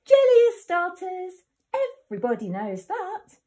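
little wolf bluffing at full shout. A narrator's reading. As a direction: blurt it out to sound clever. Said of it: "he shouted".

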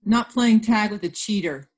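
huffy storybook quarrel voice; accusing. Acted. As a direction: throw the accusation at a playmate. Acted quarrel, accusing playmate.

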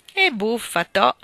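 chuckling at the funny idea; laughing. Acted. Grazia amused by the tree horse, laughing exclamation. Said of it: "esclamò Grazia ridendo".

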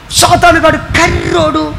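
slow, drawn-out imitation of the old pastor; old pastor's words. Retelling the old pastor's sermon line, slow mock emphasis. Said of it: "ఈయన ఎప్పుడు ప్రసంగానికి లెగిసినా".

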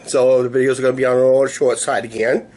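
worn, weak voice after a week of coughing; tired, sore-throat weak voice. Real, not acted. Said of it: "my voice is gonna sound weak".

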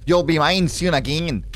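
lightly put-on Scottish ex; Scottish accent. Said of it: "He's from a Scottish accent will do".

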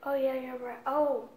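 cheek bulging with sweet; sucking candy while speaking; talking around candy. Real, not acted. Seen 0: hand to mouth before; cheek bulges while the girl talks.

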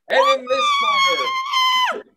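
announcer flourish. Acted. Announcer intro, pitch jump.

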